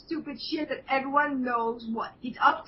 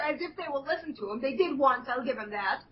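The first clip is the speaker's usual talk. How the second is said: ordinary talk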